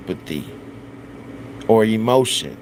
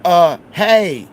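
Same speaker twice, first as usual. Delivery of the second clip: dazed stoner; 6 semitones higher, 4 dB louder, slower than usual. Retold or imitated. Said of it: "You like this".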